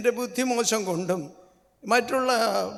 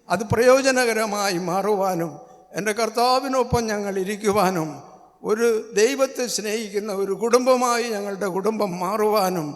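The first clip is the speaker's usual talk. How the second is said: rising, louder plea; fervent prayer; 3 dB louder than usual. Acted. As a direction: pray with mounting fervour. (പുതുവർഷ പ്രാർത്ഥനയിൽ ആവേശത്തോടെ ഉയരുന്ന ശബ്ദം)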